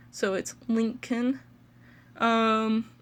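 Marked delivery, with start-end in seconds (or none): 0.7-1.4 LINCOLN said slowly as LINK-in; slow teaching "Lincoln", both syllables clear; careful pronunciation. Shown as a demonstration. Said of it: "important to note that with Lincoln".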